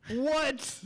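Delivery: high-pitched astonished yelp; real disbelief, voice leaping up. Real, not acted. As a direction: blurt it out in amazement. Astonished at the fake accent.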